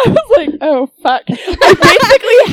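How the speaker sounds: giggling through the words; laughing. Real, not acted. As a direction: laugh while you say it. Retelling own embarrassing text mistake.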